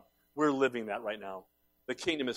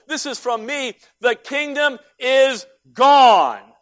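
full-force preaching; 11 semitones higher, 14 dB louder than usual. Acted. Pastor voicing God refusing Moses and Rehoboam, full-force preaching. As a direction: proclaim God's no like a closed door.

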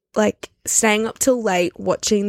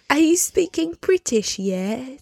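badly faked British accent, slow and higher; drawn-out, hammed-up British accent; botched British accent; 5 semitones higher, slower than usual. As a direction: attempt a British accent and miss. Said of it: "That wasn't British".

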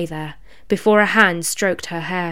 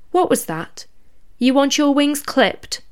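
mocking threat; 7 semitones higher than usual. Rabbit demon mocks the threat.

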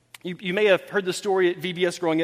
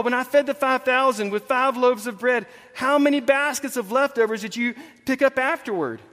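higher, insistent quizzing; exasperated Jesus; 4 semitones higher than usual. Retold or imitated. Jesus quizzing disciples on leftover baskets, acted exasperation. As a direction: quiz them in acted exasperation. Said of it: "wanting to pull his hair out".

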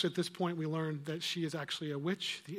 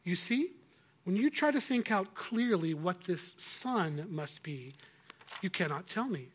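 lightly voiced witch; 4 dB louder than usual. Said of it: "with another of her soft silver laughs".

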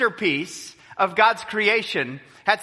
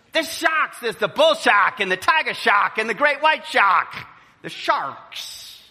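higher, lightly voiced local reeling off sharks; local listing sharks; 4 semitones higher than usual. Local lists the shark types.

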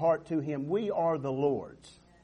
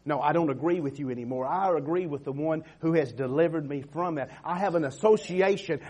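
ordinary talk, nothing marked

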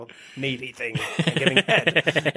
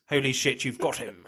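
softer, deadpan British understatement with a laugh at the end; understated exclamation; 2 semitones higher, 6 dB quieter than usual. Retold or imitated. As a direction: say it flat and quiet, as if nothing much happened. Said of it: "but he actually just says".

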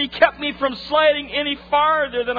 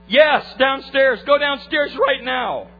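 urgent; 3 semitones higher, 5 dB louder, slower than usual. Retold or imitated. Wife urging him downstairs.

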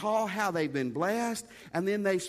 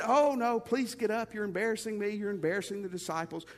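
mock Jesus; 2 semitones higher, faster than usual. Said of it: "And Jesus said".

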